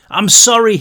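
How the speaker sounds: desperate apology. A narrator's reading. Brick pleading.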